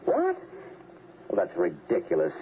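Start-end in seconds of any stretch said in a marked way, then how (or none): 0.0-0.4 a high, sharp what; jolted by the news; shocked what. Acted. Father shocked by kill threat.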